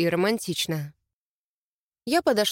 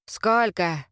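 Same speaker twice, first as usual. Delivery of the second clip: hoarse; 3 semitones lower than usual. A narrator's reading. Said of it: "прохрипел Альфа".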